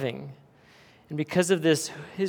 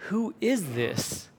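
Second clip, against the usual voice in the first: slow, higher-pitched awed question; fearful amazement; 4 semitones higher, 4 dB quieter, slower than usual. Retold or imitated. Disciples asking after the storm is calmed, imitated amazement. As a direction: ask it slowly, in mild awe. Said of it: "In fear and amazement, they asked".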